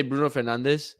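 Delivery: "Bruno Fernandes" said Spanish-style, fer-NAHN-dess; Spanish pronunciation. Shown as a demonstration. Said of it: "Spanish people do say Fernandes".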